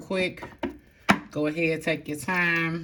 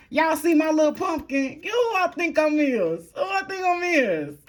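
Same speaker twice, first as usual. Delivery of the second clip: spiced-up playful voice; 13 semitones higher, 4 dB louder than usual. Pretend. Showing viewers the little pumpkin, spiced-up squeal. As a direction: squeal it like a cooing show-off, breaking into laughter. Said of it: "I like to spice it up".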